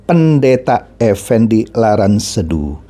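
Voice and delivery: "Pendeta" stressed, drawn out low and slow; emphasis on Pendeta. Real, not acted. Vlogger stressing a leader's title, "Pendeta" slow and emphatic. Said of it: "Saya mesti tekankan".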